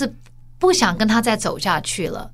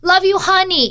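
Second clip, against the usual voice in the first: reflexive; 9 semitones higher, 5 dB louder than usual. Retold or imitated. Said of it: "已经变成一个像bye".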